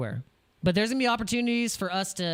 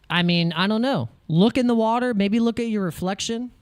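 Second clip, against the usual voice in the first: mock lecturing; 2 semitones higher, 5 dB louder than usual. Scolding chat, loud and emphatic.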